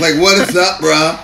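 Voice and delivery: dude-bro voice. Acted. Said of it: "Daddy, please stop talking like that".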